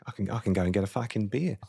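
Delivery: put-on casual, uncertain Aussie accent; attempted Australian accent. Imitating the director off for a beer, attempted Australian accent. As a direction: have a wobbly go at Australian. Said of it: "I don't know if that was Australian".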